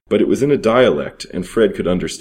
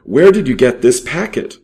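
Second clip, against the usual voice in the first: loud, higher demand; fierce question; 7 semitones higher, 6 dB louder than usual. A narrator's reading. Thief choking the boy for an answer, fierce and loud. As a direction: throttle the answer out of him. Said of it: "acted so fierce".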